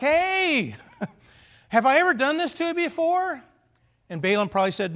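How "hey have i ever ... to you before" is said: high, loud mock donkey voice, laughing; talking donkey. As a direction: play the indignant donkey. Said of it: "the donkey said something like".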